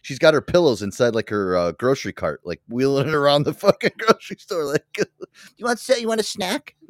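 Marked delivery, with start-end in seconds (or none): 5.6-6.8 high little doting voice; high, pretend coaxing voice; mock coaxing. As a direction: offer it as if to a baby, high-pitched. Voices the pillow woman to pillows.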